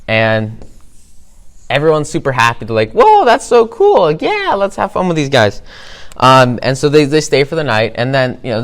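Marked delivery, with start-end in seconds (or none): 2.9-5.6 high-pitched, wowed welcome; excited townsfolk. Acted. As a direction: gush like a delighted crowd. Townsfolk delighted at cute newcomers.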